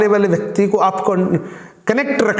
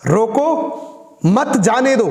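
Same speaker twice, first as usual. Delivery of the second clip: rising "रोको", long break, then "मत जाने दो" as one phrase; higher-pitched order, stopping after "रोको"; pause after रोको; 4 semitones higher than usual. Shown as a demonstration. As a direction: attach "मत" firmly to "जाने दो". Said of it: "मतलब उसको रोक लो".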